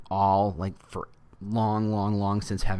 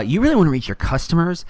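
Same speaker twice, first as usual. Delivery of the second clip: weird Facebook voice; 7 semitones higher, 7 dB louder than usual. Pretend. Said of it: "that weird Facebook accent or voice".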